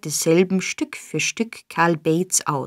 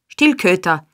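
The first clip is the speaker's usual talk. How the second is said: louder barked command at the growling dog; roared at dog; 4 dB louder than usual. A narrator's reading. Sykes bellowing at his growling dog, rough command. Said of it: "brüllte er seinen Hund an".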